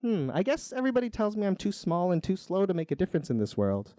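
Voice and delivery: a hint of a modest, unsure snail; shy snail. Hesitant snail answers Jomny.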